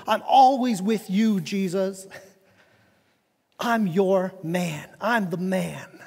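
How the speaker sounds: cocky vow of loyalty, slowing at the end; bragging. Acted. Peter bragging to Jesus of his loyalty, boastful. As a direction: boast like a devoted right-hand man. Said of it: "he's kind of bragging on himself".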